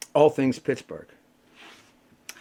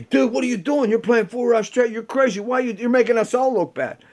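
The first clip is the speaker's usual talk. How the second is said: higher, louder incredulous friend; mock musician friend; 8 semitones higher, 3 dB louder than usual. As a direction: tease him like a shocked fellow player. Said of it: "a lot of musicians saying to me".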